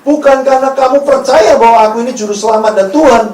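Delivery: preacher voicing a pointed accusation; Jesus's blunt rebuke. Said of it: "Yesus bilang gini".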